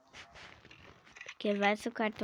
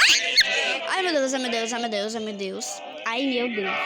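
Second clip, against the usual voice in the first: being chased; 4 dB louder than usual. Real, not acted. Monster chasing her in game.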